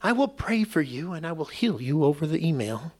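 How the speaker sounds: lightly hammed southern preacher promise; southern accent. TV preacher promises healing by email, mock southern accent. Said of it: "always have a southern accent".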